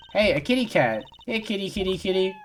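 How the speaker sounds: high, coaxing kitty call. Pretend. Calling to a cat.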